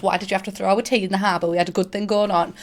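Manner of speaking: mock-wounded sarcasm; faintly sarcastic, quick and dry. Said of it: "That's sarcasm".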